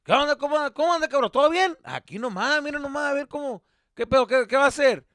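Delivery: loud, high, over-hearty greeting; fake friendly dad. Dad becomes fake greeting the neighbor, loudly hearty. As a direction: gush loudly to hide the annoyance. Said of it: "become a fake person".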